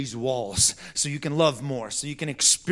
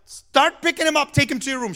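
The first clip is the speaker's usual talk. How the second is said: higher, firm dad command; stern order; 11 semitones higher, 5 dB louder than usual. Retold or imitated. Father ordering his daughter to tidy up, stern. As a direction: tell her off firmly.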